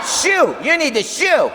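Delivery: timid shoo. Retold or imitated. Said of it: "standing on the air conditioner".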